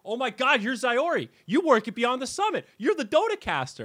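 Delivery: high, loud starstruck gushing; excited fanboy. Retold or imitated. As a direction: gush like a starstruck fan. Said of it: "this rioter comes up to me and goes".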